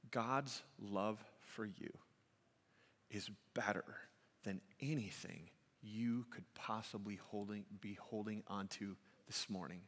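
tender appeal. Real, not acted. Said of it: "I wanna tell you this".

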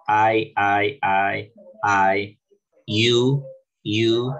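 "I" as eye and "you" with firm oo, spaced apart; pronunciation drill. Shown as a demonstration. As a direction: repeat "I" and "you" loudly for practice. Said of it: "Esto lo practican muchas veces".

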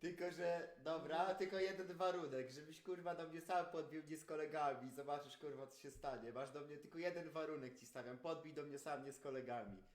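loud aggressive challenge; heated. Real, not acted. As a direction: lay down terms like a threat. Laying down fight conditions, heated.

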